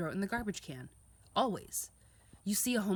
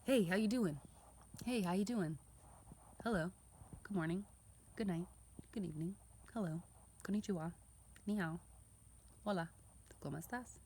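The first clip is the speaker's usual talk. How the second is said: friendly greetings; 2 semitones higher, 4 dB quieter than usual. Shown as a demonstration. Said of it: "give a smile".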